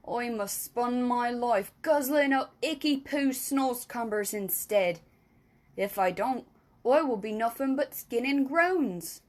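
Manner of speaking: lightly voiced friendly giant, complaining; a hint of a gruff giant; BFG voice. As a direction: giant grumbling about his food. BFG explains his diet.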